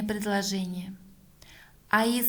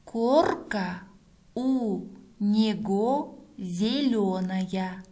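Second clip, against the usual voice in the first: reading back slowly; slower than usual. Shown as a demonstration. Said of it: "Проверяем".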